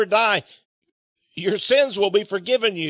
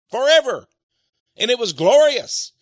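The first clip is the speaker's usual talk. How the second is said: louder, rising praise; proclaiming everlasting life, louder and exultant; 4 semitones higher, 5 dB louder than usual. Real, not acted. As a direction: let the joy break out.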